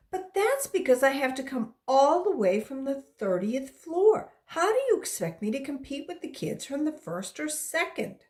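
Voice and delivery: put-on a girl's exasperated grievance, voice jumping up; indignant complaint. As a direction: plead your unfair case to Louis. Girl complains about unfair recess.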